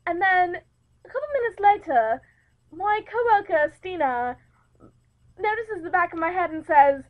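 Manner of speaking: storytelling in a put-on English accent. Host telling her anecdote of a work trip, put-on English accent. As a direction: recount it in a light English accent. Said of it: "if I start talking in an English accent also".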